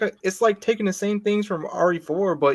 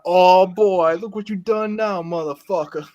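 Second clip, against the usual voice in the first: louder mock villain taunt; Jack Baker impression; 2 semitones higher, 5 dB louder, slower than usual. Fan quoting Jack Baker's taunt to friends, mock menace. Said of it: "I'm like".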